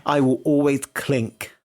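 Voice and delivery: slow, measured vow; deliberate declaration. Real, not acted. Defying William Hanson with a message, slow declaration. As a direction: say it slowly as a formal message. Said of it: "this is a message for William Hanson".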